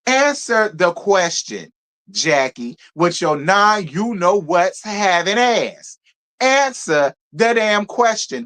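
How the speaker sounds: slow, insistent demand. Real, not acted. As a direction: spell it out slowly, fed up. Demanding an answer from Jackie.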